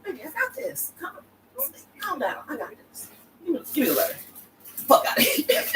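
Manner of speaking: high, soft soothing mock voice; calm her down tenderly, then scoff; king reassuring his wife. The king soothing Marie about the letter, high soft mock reassurance.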